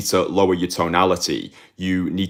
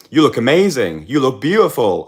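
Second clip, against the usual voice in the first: higher, lilting compliments that sound like questions; imitating too high-pitched compliments; 7 semitones higher, 5 dB louder than usual. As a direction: mimic the client asking for approval with his pitch. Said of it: "it was all too high pitched".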